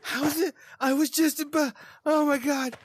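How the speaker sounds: high-pitched, stammering disbelief; horrified. Retold or imitated. Ex-wife watching Adam walk away, horrified. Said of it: "horrified, just absolutely like".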